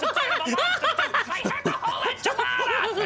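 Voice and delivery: laughing rant. Acted.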